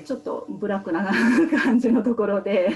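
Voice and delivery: a small laugh breaking into the phrase; said with an awkward little laugh. Real, not acted. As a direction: chuckle through the words. Wry aside about bad workplace.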